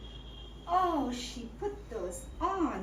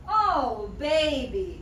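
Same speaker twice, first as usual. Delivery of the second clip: put-on American accent; 2 semitones lower, 3 dB louder, much slower than usual. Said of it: "how he got an American accent".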